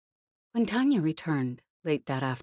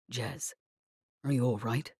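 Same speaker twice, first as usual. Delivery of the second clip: strained concern; 4 semitones lower, 4 dB quieter than usual. A narrator's reading. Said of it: "his voice strained".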